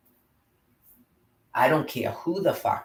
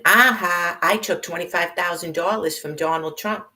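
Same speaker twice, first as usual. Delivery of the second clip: loud high Aha, then a sneering higher boast; mocking imitation; 6 semitones higher, 4 dB louder than usual. Mocking her boast about Trump money with a higher gloating voice. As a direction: taunt her like a gloating show-off.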